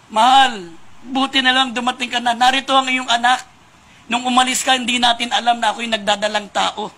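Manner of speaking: wife greeting her returning husband, lightly voiced and glad; joyful wife. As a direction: play the wife, thrilled her husband is home. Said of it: "Tuwang-tuwa yung kanyang asawa".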